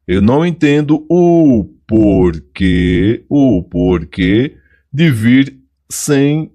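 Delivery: o porquê slow, stress on o; slow reading. Shown as a demonstration. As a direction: read the example to show the noun. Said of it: "Então, fica o porquê". (leitura lenta destacando o porquê)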